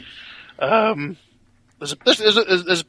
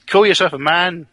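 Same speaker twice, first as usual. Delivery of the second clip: raised, higher taunt; louder repeat; 4 semitones higher, 5 dB louder than usual. Acted. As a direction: say it up so they catch it. Repeats louder after "What's that?.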